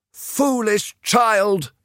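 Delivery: slow, drawn-out mother's reproach; scolding mother. A narrator's reading. Mother dismissing her lovestruck daughter, slow and weary. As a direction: let it sigh out slowly, disapproving.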